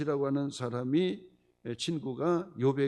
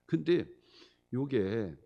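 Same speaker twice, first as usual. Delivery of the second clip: usual speaking voice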